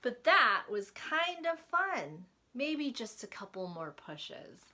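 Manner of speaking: sly. Acted. Larry tempted again.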